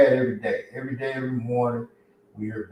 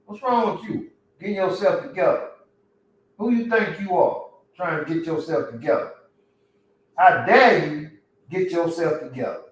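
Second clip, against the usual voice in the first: voicing the old crowd, higher and scolding; a mild mock of jealous homeboys pulling you back; mocking envious friends; 3 semitones higher than usual. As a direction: sneer like the folks who want you to stay down. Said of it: "they used to".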